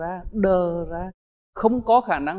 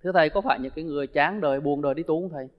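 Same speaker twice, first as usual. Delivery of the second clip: questioning student; 3 semitones lower, faster than usual. Retold or imitated. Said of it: "Có những người nói".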